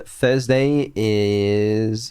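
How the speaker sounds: slow announcement. Acted. Announcing the Evil stream.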